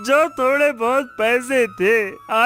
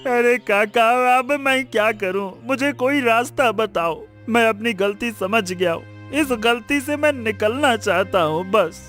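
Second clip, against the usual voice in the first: mildly tearful pleading; weeping. Acted. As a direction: beg an elder for help through tears. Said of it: "क्यों रो रहे हो".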